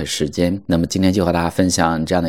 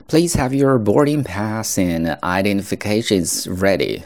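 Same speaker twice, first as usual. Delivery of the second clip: airport announcement; 3 semitones higher than usual. Shown as a demonstration. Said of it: "example announcement line".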